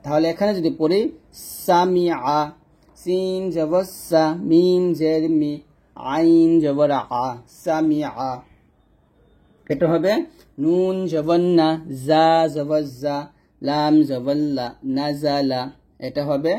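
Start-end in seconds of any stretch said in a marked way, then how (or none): 1.6-8.3 slow spelling, সা with a sharp hissed s; whistling seen. Shown as a demonstration. Teacher spells a word for learners, whistling seen. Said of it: "এরকমভাবে একটা শব্দ বের করে". 10.6-15.6 slow spelling, জা with a buzzing z; whistling za. Shown as a demonstration. Teacher spells a word for learners, buzzing za. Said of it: "এরকমভাবে একটা শব্দ বের করে".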